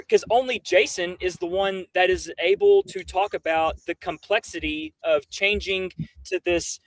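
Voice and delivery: ordinary talk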